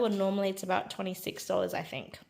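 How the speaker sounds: talking while crunching chips; munch chips between words. Real, not acted. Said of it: "Sorry about the crunching".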